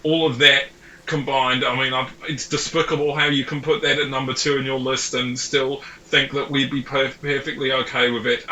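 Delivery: put-on playful New Zealand fan grumbling in a New Zealand accent; a teasing New Zealand accent for Kiwi fans. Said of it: "I'm gonna do your accent here".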